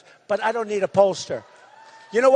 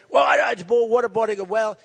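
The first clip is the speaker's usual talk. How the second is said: mock stammering. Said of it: "she goes".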